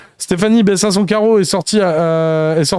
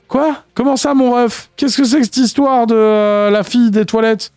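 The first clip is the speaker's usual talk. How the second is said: incredulous; 5 semitones higher than usual. Real, not acted. Reader shocked by story line.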